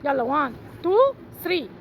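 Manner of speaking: slow drawn-out countdown; slow count to start the game. Real, not acted. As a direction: stretch each number out.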